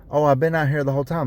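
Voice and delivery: sarcastic imitation of a lying rider; mocking the rider. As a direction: rattle off her fake excuse sarcastically. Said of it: "you're lying about it, saying".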